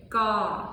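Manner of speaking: "ga" flat and level; even, level "ga"; mid tone ga. Shown as a demonstration. Teacher showing group one: level "ga". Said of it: "Group one, they're gonna say".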